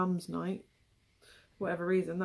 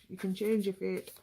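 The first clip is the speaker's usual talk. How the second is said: bad Scottish accent. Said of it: "That's my worst Scottish accent ever".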